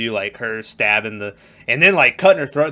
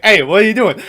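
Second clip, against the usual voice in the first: higher and louder, startled yell; imitating a man surprised by a kangaroo; startled parachuting dude; 7 semitones higher, 6 dB louder, faster than usual. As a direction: call out at the kangaroo in alarm. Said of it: "And he's like".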